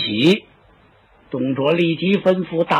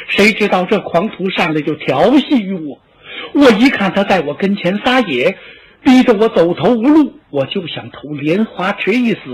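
put-on higher, pleading voice of a wronged young concubine, close to tears; tearful pleading concubine; 3 semitones higher than usual. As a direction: plead your innocence to the master, voice lifted and near tears. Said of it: "貂蝉当时就哭了".

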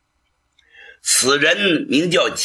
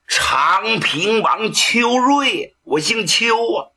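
high, slow and choked with tears; name yourself through weeping; tearful; 7 semitones higher, slower than usual. Acted. Prince tells his nephew his name, weeping with emotion. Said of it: "长平王裘瑞这么一哭".

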